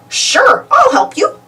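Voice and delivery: high, cheerful piper voice; chirpy helpful piper; Pied Piper. A narrator's reading. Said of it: "says the Pied Piper".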